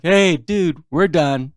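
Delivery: half-voiced retold holler; retold yell. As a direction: imitate calling back down the path. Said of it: "she yells back".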